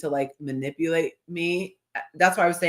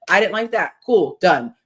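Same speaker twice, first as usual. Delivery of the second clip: louder, brisk matter-of-fact close; breezy and final; 6 dB louder than usual. Retold or imitated. Ideal partner stating a complaint simply, breezy and final. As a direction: say it and shut the topic. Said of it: "then you just be like".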